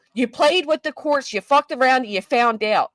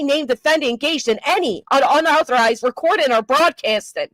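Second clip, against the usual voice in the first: measured, formal court-order read; formal reading of a ruling. Acted. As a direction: read it out like the judge's own words. Reads the court order aloud.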